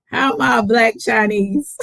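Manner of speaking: incredulous, laughing as the words come out; laughing question. Real, not acted. Host throws the Chinese remark back, laughing. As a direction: ask it through real laughter.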